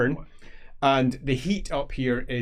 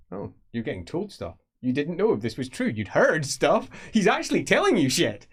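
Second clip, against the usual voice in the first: excited; 5 semitones higher, 3 dB louder than usual. Acted. GM excited aside to player.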